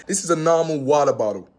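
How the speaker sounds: American accent, "water" and "bottle" with flapped t, wadder boddle. Shown as a demonstration. British vlogger redoing the line for American viewers, American accent. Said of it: "let me change my accent for the Americans".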